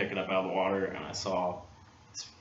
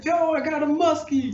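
high, loud yell to a stranger downstream; calling out for help with a net; retold yell; 7 dB louder than usual. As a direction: shout it across the water. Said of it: "I yelled at the guy".

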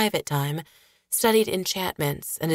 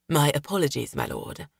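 meek servant voice; 2 semitones lower than usual. Acted. Servant apologizes to his lord.

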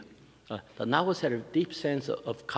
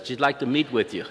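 laughing summary; 4 dB louder than usual. Retold or imitated. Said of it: "I could summarize it in one sentence".

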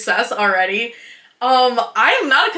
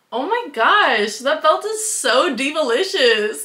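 put-on girly gushing; 4 semitones higher, slower than usual. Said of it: "and I'm like".

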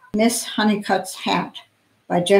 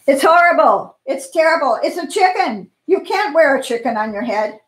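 outraged snob; 5 semitones higher than usual. Acted. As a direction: shriek your disgust at the chicken hat. Mrs McSnoot outraged at the hat.

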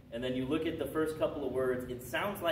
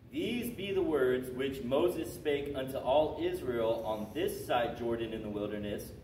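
scripture read aloud. Real, not acted. Teacher testing the class on a book's first line, emphatic reading. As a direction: read it out as a quiz clue.

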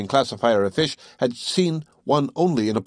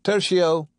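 raised, precise lecturing voice; scholarly Conseil; 7 semitones higher than usual. Acted. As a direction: recite it like a tidy young scholar. Conseil announces third order.

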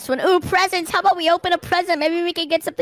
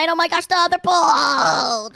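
alarmed cry; 3 semitones higher than usual. Real, not acted. Boulder rolling toward friend.

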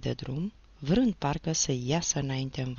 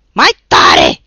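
much lower, very loud grinding snarl; gritted-teeth snarl; 10 semitones lower, 19 dB louder than usual. Acted. The sweating teacher snarls at Nilă, teeth gritted. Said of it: "scrâșni învățătorul".

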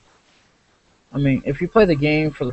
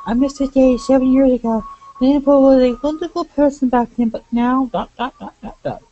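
much higher-pitched game character; put-on character voice; 11 semitones higher, 3 dB louder than usual. Game character reminiscing about the Emperor, high put-on voice.

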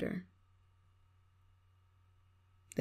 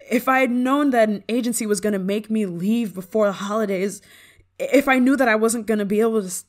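bitter complaint; 4 semitones higher, 8 dB louder than usual. Acted. Bitter rant about missed holidays.

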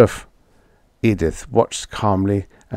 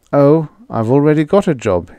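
higher, louder, airy announcement; 6 semitones higher, 5 dB louder than usual. A narrator's reading. Roy announcing his new job to Edith, airily. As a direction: toss it off airily. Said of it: "he said airily".

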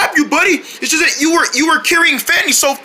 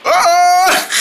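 pretend yelling; 6 semitones higher, 3 dB louder, much slower than usual. Knocked over by seal.

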